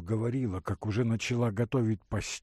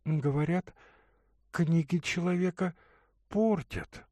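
pensive; 7 semitones higher than usual. Acted. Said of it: "задумчиво покачивая головою".

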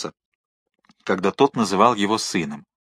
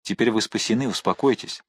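softer, gentle reassurance; calm him down softly; soothing; 5 dB quieter than usual. Acted. Athos calms the drowning man. (мягко успокаивая)

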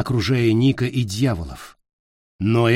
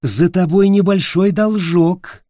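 femme fatale; 7 semitones higher, 4 dB louder than usual. Acted. Witch reminds Peter of debt.

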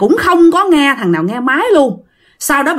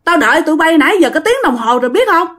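raised pitch, exasperated telling-off; scolding; 5 semitones higher than usual. Retold or imitated. Squad leader scolds soldiers for an hour's delay, exasperated. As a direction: scold the latecomers who kept him waiting. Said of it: "bạn mới chửi rằng".

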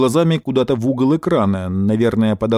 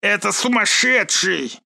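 much higher, slow frantic cry; frantic general; 8 semitones higher, slower than usual. Acted. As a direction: yell in panic. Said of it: "закричал генерал". (панически, высоко)

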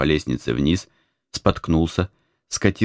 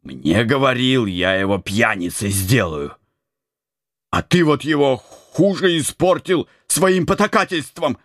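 angry outburst; 6 semitones higher than usual. A narrator's reading. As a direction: blame the abbot, voice climbing. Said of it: "злобно воскликнул Антоний". (гневное обвинение)

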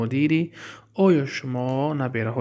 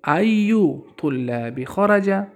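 slow example read; 4 semitones higher, much slower than usual. Shown as a demonstration. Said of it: "میگه ایو".

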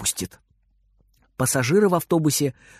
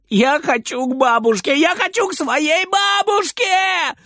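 put-on high, slow, wailing sob of a child; sobbing child; 14 semitones higher, slower than usual. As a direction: cry out for grandma through tears. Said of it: "всё время всхлипывает".

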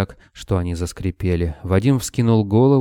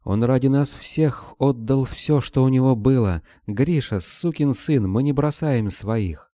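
higher, slower indignant plea; passionate defiance; 6 semitones higher than usual. A narrator's reading. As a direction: stand your ground for a comrade. Vera defends Kobylin.

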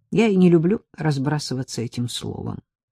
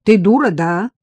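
angry; 4 semitones higher, 7 dB louder than usual. A narrator's reading. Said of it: "сменила тон и сердито спросила".

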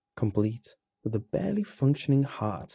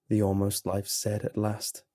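usual speaking voice

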